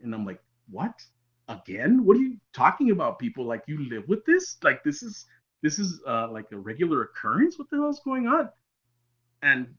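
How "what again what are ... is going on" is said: retold disbelief, rising in pitch; acted-out bewildered outburst; incredulous reaction. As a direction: react baffled, pitching up to a high final question. Retold shocked reply to sister.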